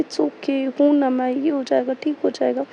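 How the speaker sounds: put-on quiet tender comfort to a crying child; lovingly. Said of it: "प्यार से समझा रही थी".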